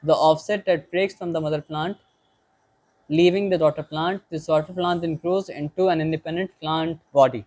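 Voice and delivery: each word read out slowly and deliberately; slow textbook reading. Shown as a demonstration. Teacher reading the book aloud to the class, slow dictation.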